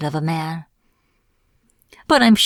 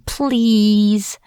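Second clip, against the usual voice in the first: drawn-out, higher plea; pleading; 4 semitones higher, 4 dB louder than usual. Acted. Captive witch begs her captor, pleading. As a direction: beg with one stretched word.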